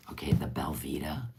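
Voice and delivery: breathy whispered brand name. Real, not acted. Whispering the snack's name to viewers.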